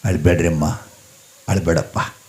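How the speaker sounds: low, soft reassurance; gentle consoling. Acted. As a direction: comfort them quietly, voice dropped. Siddappa consoles the weeping couple. (ಮೆಲುದನಿಯಲ್ಲಿ ಸಮಾಧಾನ)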